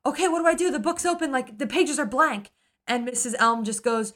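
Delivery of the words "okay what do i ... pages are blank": a touch of high confused voice; light panicky question; mild bewildered girl; confused Nora. Retold or imitated. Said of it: "she's like".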